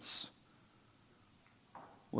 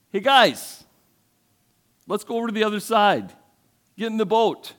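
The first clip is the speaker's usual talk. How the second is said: higher, breezy, offhand call to friends; casual Jesus; 8 semitones higher, 6 dB louder than usual. Acted. Jesus casually calls his disciples into the boat, light and high. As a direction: toss it out like a buddy rounding up the crew.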